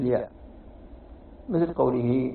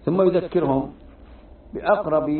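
emphatic; 4 semitones higher, 4 dB louder than usual. Real, not acted. Teacher raises voice for emphasis.

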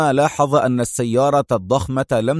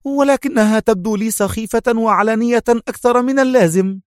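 young woman voiced higher, muttering nervously; higher woman's voice, a touch of nerves; 10 semitones higher than usual. A narrator's reading. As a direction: grumble it under your breath, on edge. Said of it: "غمغمت في عصبية".

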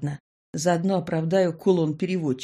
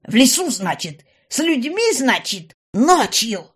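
louder, higher, biting questions; fury; 6 semitones higher, 6 dB louder than usual. A narrator's reading. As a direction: fume at the father. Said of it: "неприкрытая ярость".

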